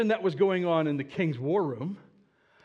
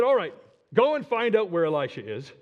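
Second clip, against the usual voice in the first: loud, higher royal command; commanding order; 3 semitones higher, 5 dB louder than usual. Acted. King ordering his men to find Elisha, loud command. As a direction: send them off with a loud order.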